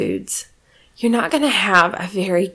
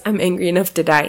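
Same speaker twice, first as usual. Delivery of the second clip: mock angry; faster than usual. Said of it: "has anyone ever been in that place".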